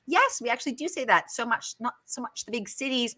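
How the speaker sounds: a hint of British in the vowels; accidental British accent. Real, not acted. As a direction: slip into a British accent while reading aloud. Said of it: "Now I'm sounding British".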